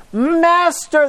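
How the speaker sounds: high desperate call of Master; crying out. Acted. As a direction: call out to him over the storm. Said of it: "they cry out".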